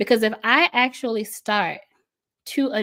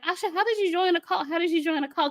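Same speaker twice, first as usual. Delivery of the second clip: incredulous outsiders; 9 semitones higher, faster than usual. Retold or imitated. People asking how she joined.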